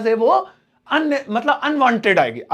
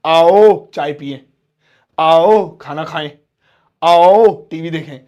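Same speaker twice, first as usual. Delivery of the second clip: slow, louder friendly invitations; inviting; 5 semitones lower, 7 dB louder, slower than usual. Shown as a demonstration. Teacher demonstrating a slow, loud invitation to tea. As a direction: call them over for tea warmly.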